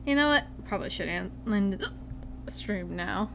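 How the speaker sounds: tired voice broken by hiccups. Real, not acted. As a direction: push through a hiccup fit. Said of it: "I promise these aren't drunk hiccups".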